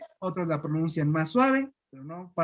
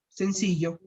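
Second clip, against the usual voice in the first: Mexican accent. Shown as a demonstration. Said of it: "un poco más tranquila, como en México".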